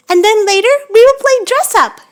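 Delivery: loud, eager announcement; excited. Real, not acted. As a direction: pitch it up with glee.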